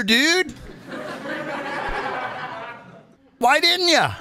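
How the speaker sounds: high, insistent interrogation; indignant challenge. Acted. Host acting out grilling a reporter, indignant. Acts out challenge to Jim Acosta.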